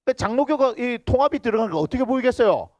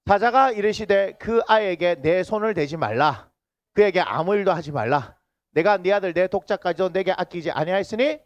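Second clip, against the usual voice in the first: scripture reading. Acted.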